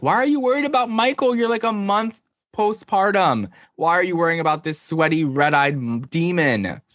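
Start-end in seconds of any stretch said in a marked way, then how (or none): 0.0-5.7 incredulous. Real, not acted. Incredulous rant about Ashley.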